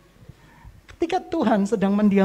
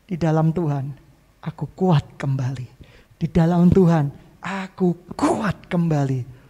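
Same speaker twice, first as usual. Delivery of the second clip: calm declaration; 3 semitones lower than usual. Shown as a demonstration. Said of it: "kamu berkata". (pengakuan iman yang tenang dan pelan)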